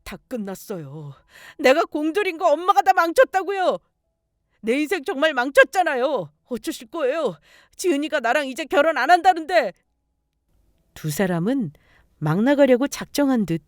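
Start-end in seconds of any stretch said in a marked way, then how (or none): 0.0-1.1 low, hushed defeat; soft, sunken despair; despairing resignation. Acted. Son despairs at lost chance. 1.6-9.7 high, wailing accusation; acted overwrought, aggrieved son; furious lament. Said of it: "분에 겨워 자기 엄마 멱살까지".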